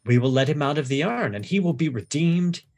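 lightly voiced, unhurried sinister explanation; calm sinister priest. Priest explaining the cobra trial to the captive, calmly sinister. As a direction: explain the cruelty as if it were mercy.

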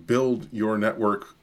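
"build your network" slowly, each word weighted; slow down and lean on "build your network"; slow, emphatic. Shown as a demonstration. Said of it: "N-, no, you, you want to".

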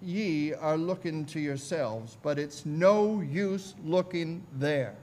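put-on slow preacher with an Essex accent; imitated Essex country preacher; broad Essex accent. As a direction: preach slowly in broad rural Essex speech. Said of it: "in his broad Essex accent".

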